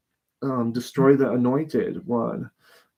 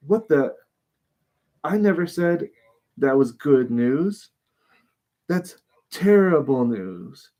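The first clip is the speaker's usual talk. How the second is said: indignant David; 2 semitones higher than usual. Retold or imitated. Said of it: "He is mad".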